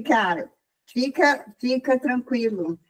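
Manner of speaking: slow, gentle reassurance; slow down and settle him; reassuring. Retold or imitated. Customer forgiving the man who lost the ring, reassuringly.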